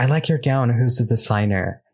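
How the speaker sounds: ordinary delivery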